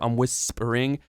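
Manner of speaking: hissing, stretched S in "whispering"; drawn-out S. Shown as a demonstration. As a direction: lean on the S in "whispering", holding it long. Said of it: "there's the S there".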